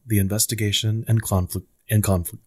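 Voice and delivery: low, mock-grand announcing; grand announcer intro. Announcing the podcast act to his cohost in a mock-grand voice. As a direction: introduce the act like a pompous host. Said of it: "Do you like to call it that?".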